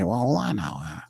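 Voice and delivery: a hammed-up boss calling out his coach; imitating Mickey. Host acting out Mickey questioning Dennis, mock voice. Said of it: "Mickey would turn to him and say".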